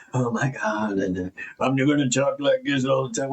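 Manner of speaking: silly put-on voice, lightly done; mock a stiff scripted talker for fun; goofing around. Guest to host, goofing on a scripted persona, light mock voice. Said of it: "When I talk like that, I'm goofing around".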